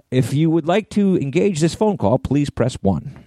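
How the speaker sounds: automated phone voice. Retold or imitated. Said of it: "and they go".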